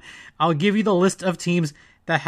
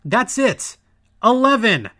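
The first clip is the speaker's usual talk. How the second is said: calm turning angry. Real, not acted. Exasperated over power play.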